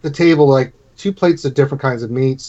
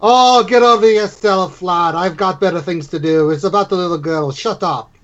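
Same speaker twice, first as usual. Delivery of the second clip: dismissive innkeeper; 5 semitones higher than usual. Acted. Innkeeper snubbing Oregon to help the girl, dismissive. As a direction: wave off the pest and turn back to the child.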